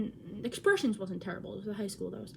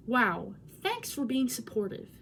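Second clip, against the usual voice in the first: sarcastic; slower than usual. Retold or imitated. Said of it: "I was being sarcastic".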